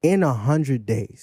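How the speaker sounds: drawn out very slowly; slow repeat. Shown as a demonstration. Host finishing the repeated claim for listeners, slowly. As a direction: stretch each word so it sinks in. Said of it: "I'm gonna say it slow".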